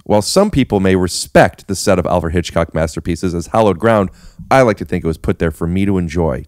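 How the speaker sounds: reading a passage in a mock-grand voice; reading aloud. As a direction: read it like a proud memoir. Reading from his book aloud.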